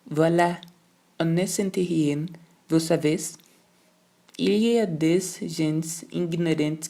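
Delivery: slow, lofty governess in French; masterful governess dismissing the matter; domineering. Acted. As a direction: lay down the law from above. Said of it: "Revelou-se sentindo absolutamente dominadora".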